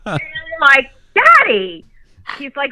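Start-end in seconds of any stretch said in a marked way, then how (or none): 1.2-1.8 put-on high, louder child's "Daddy" calling up to him; a small kid timidly addressing her dad; little girl. Imitating her child self calling to dad, high childlike.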